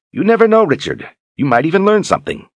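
put-on high, loud eager old man; a high, brisk old mentor's voice; old wizard Zed. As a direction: call the boy along like a spry old wizard. Zed teasing Richard.

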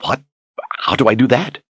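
lightly voiced nervous young man; stammering. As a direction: blurt it out, caught off guard. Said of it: "Richard stammered".

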